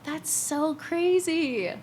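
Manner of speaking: put-on excited to her kids. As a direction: show the kids her name, half laughing. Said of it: "But I was like".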